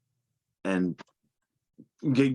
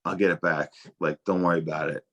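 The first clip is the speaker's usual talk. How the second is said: unbothered reassurance; 5 semitones lower than usual. Retold or imitated. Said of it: "he didn't really sweat it".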